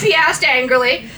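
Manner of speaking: ordinary delivery, nothing marked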